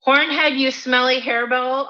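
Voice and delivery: high-pitched storybook indignation; indignant retort. Acted. Goat throwing insult back at troll, indignant.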